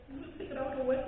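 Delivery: hushed and lifted, consoling; reassuring. Retold or imitated. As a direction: gently comfort someone in tears. Reassuring the crying woman.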